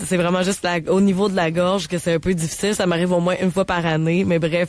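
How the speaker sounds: hoarse, scratchy sick voice; smoker's rasp. Real, not acted. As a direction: talk through a sore throat. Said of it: "ma voix de fumeuse".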